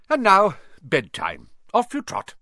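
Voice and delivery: a lightly voiced kindly old wizard, rising high at the end; old headmaster voice. Dumbledore to the first years, lightly voiced old headmaster. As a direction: gently shoo the children off to bed. Dumbledore sends students to bed.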